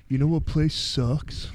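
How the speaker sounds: alien voice. Pretend. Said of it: "Now repeat this".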